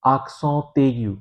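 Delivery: accent aigu said slowly, aksõ t egiju; slow French demo. Shown as a demonstration. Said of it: "फ्रांसीसी में इसका नाम है". (धीमे-धीमे French में accent aigu)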